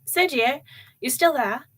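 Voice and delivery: mother shouting into the speakerphone; shouting into the phone. Acted. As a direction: shout so the whole room hears. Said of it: "she shouted into the phone".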